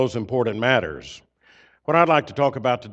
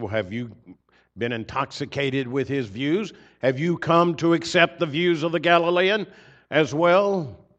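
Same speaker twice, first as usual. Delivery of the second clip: scornful challenge; 4 semitones higher, 3 dB louder than usual. Retold or imitated. Priests scoffing at their officers.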